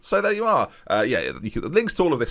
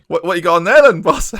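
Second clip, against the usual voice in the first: high, loud cartoonish footballer; squeaky player voice; 7 semitones higher, 10 dB louder than usual. Striker apologises to his manager, high squeaky voice. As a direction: play the eager striker pestering his boss.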